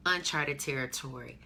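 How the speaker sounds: ordinary talk, nothing marked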